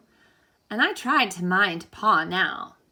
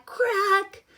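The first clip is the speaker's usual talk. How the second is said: high, loud sudden crack; sharp crack; 13 semitones higher, 3 dB louder than usual. Acted. Reader voices the egg cracking in the cave, sharp and high. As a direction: make the crack jump out.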